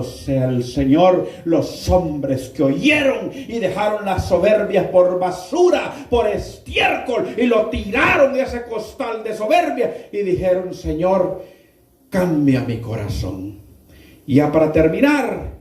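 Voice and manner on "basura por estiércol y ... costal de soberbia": preaching shout. Real, not acted. Preacher denouncing pride.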